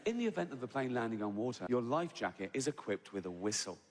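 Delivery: lightly imitated safety-video voice; even, reassuring announcer parody; mock calm announcement. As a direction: recite disaster as soothing routine. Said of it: "that calm, hypnotic voice".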